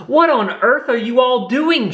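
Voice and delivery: high, sharp scolding demand; a mother stopping the mob. Acted. Kanga confronts Rabbit and the hunters, sharp demand. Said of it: "she demanded".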